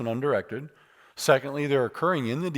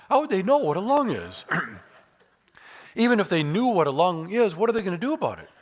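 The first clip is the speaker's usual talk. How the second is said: incredulous; 6 semitones higher than usual. Real, not acted. Incredulous rhetorical questions.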